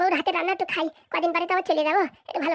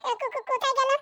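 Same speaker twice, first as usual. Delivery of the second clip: higher-pitched stuttered question; stammering; 5 semitones higher than usual. Acted. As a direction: trip over the first syllable repeatedly. Stammers asking where they went.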